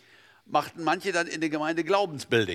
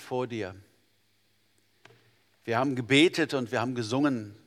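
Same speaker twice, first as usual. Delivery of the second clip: earnest, measured prayer voice; a calm, heartfelt pastor's prayer. Real, not acted. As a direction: pray over the congregation. Leads closing prayer.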